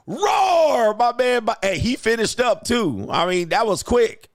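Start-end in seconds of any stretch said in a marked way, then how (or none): 0.1-1.4 high, loud mock roar. Mocking the growling man with a loud high roar. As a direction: roar it back to tease him.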